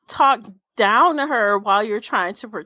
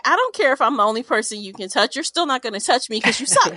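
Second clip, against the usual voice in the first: mean woman; faster than usual. Pretend. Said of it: "I'm the mean woman".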